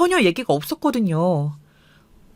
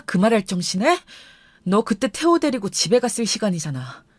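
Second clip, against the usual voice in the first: restrained anger. Acted. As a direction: hold the anger in while answering with effort. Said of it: "화를 겨우 추스리며 힘겹게 대답을 했어요".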